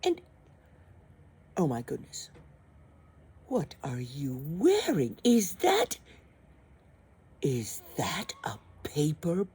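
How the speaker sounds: high, snobbish, scolding prince; snooty prince. Acted. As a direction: sneer at her clothes. Prince scolding her looks.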